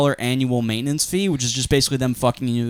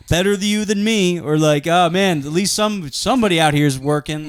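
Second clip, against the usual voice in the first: dad voice; 4 semitones higher than usual. Retold or imitated. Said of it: "dad lines at me".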